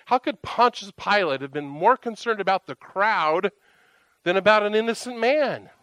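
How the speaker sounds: indignant questioning, pitch lifted; getting mad. Retold or imitated. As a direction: re-enact rising exasperation at an unjust ruling. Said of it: "I'm starting to get mad".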